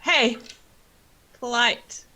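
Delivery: loud, short reprimand; scolding. Acted. Ellie reminds Egner to be polite, scolding. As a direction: call them out, then correct them.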